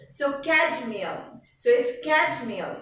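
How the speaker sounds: cadmium with the D clearly sounded; pronounced D. Shown as a demonstration. Teacher demonstrating the second letter of C D, pronounced D. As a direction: sound the D in cadmium each time. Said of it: "Without the D, you will not be able".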